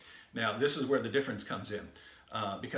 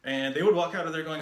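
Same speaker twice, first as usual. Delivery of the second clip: normal talking voice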